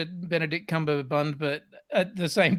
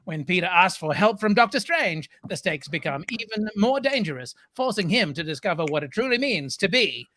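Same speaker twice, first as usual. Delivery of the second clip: trailer voice. Pretend. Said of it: "That was a choice of voice".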